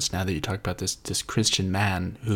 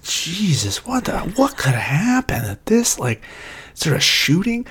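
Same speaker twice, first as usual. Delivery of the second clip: mock alarm; 7 semitones higher than usual. Own alarmed reaction to trailer.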